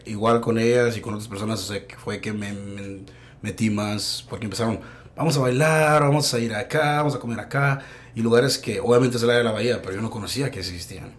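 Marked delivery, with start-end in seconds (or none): 5.2-7.8 higher, singsong list of invitations; imitated eager invitations. Friends inviting the speaker out dancing and eating, imitated eagerness. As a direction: mimic friends eagerly urging you out.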